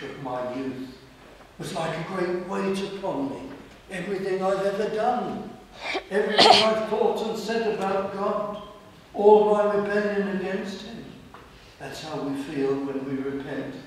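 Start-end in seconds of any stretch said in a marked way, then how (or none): 3.9-11.0 impassioned build. Real, not acted. Preacher describing the weight of shame.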